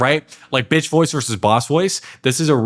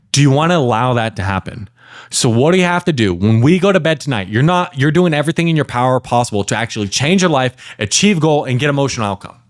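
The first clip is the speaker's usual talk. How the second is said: direct, driving challenge; ratcheted-up intensity. Shown as a demonstration. Coach demonstrates pressing a client to act, intense and direct. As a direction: push the client with building intensity. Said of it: "I'm ratcheting up the intensity".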